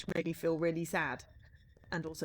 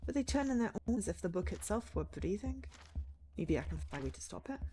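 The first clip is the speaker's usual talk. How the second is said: softer storytelling read than the chat; in-character game narration; 6 dB quieter than usual. Acted. Writer examining an unsettling painting, in-character narration.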